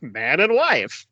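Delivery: very slow, stretched-out wedding quote; confused clergyman. Retold or imitated. Fan imitating the confused clergyman, slow and drawn out. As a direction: blurt it confusedly but draw out each word. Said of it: "so confused, and it's, like, out of nowhere".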